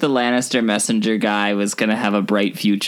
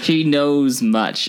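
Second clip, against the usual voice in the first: mock mysterious voice; 5 semitones higher, much slower than usual. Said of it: "quoting mysterious lady".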